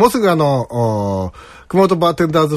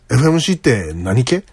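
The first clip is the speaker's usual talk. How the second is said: Toyama-dialect question ending in 何系; tentative attempt at a Toyama accent; 2 semitones lower than usual. Shown as a demonstration. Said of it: "アクセントが合ってるかどうかわかりますけど".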